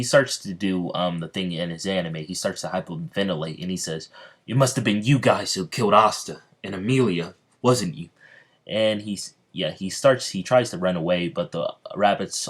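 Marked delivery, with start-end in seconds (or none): 4.5-8.1 louder, mildly acted outrage; worked-up, pointed accusing; agitated accusation. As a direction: accuse them with raised voice. Hyperventilating character accuses the rabbits.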